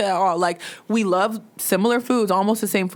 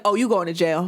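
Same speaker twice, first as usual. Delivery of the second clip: laughing threat; 3 semitones lower than usual. Retold or imitated. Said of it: "looking at him and being like".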